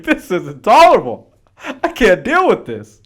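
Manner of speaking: exasperated colonist. Retold or imitated. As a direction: whine it like you're fed up. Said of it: "They're like".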